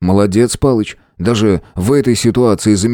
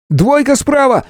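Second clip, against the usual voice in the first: sharp high yell of alarm; shouted warning. Acted. Khlyupa warning of droids on the right, shouting. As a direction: call out the danger to your partner. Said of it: "раздался крик".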